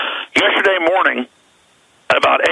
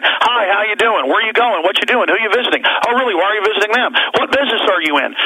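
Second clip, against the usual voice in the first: higher, prying rental-desk clerk firing questions; nosy clerk; 5 semitones higher than usual. Retold or imitated. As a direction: play the nosy counter clerk grilling a customer. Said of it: "they're all asking them secret police questions".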